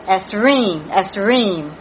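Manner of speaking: "Esreem" with the accent on "reem"; "Esreem" sounded out as a Hebrew word; careful Hebrew pronunciation. Shown as a demonstration. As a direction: try "Esreem" carefully, stretching the last syllable. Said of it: "try to pronounce these Hebrew words".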